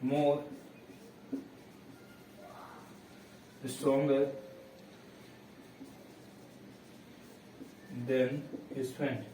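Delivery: each word set apart with long gaps; teacher dictating an example sentence, slowly; slow dictation. Shown as a demonstration. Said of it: "मैं एक example और देता हूं".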